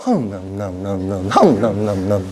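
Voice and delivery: low, slow mock prayer babble; a hammed-up mumbling worshipper; mumbled prayer. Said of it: "이러고 있고".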